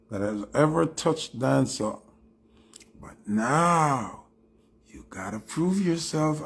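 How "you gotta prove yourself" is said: whispered dare; teasing whisper. Acted. Whispering a dare at a dancehall artist. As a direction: hiss the dare under your breath.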